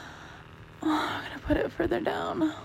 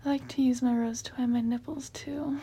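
whispering. Real, not acted. Whispered talk.

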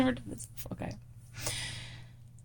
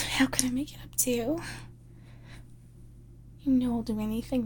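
breathy, pleading apology to the boss; sorry, flustered, eager to please; apologetic secretary roleplay; 3 semitones higher than usual. Acted.

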